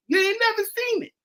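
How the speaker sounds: high-pitched emphatic shout; worked-up rant. Retold or imitated. Uncle ribbing his young nephew about the Cowboys, worked-up. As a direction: voice leaps up, hammering every "ever".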